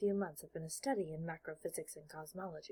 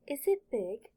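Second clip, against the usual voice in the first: put-on eager boy; 3 semitones higher, 8 dB louder than usual. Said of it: "his eagerness is showing".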